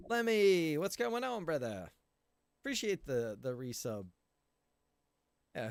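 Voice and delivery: normal talking voice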